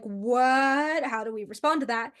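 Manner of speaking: lightly acted stunned disbelief; shocked. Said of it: "those two are just shocked".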